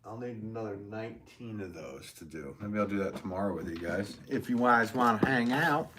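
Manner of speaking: light, accidental Southern accent. Real, not acted. Chatting to viewers about tomorrow's plans, light Southern accent. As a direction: slip lightly into a Southern twang. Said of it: "horrible Southern accent".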